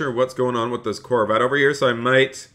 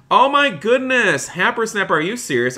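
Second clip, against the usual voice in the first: delighted surprise; 8 semitones higher than usual. Real, not acted. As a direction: gasp it out, thrilled. Streamer reacts to a viewer gift.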